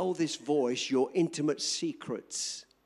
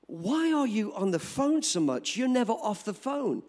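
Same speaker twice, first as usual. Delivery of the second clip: higher-pitched mock motherly scolding; lightly acted exasperated telling-off; nagging mother; 5 semitones higher than usual. Mother to daughter about always being on the phone, nagging.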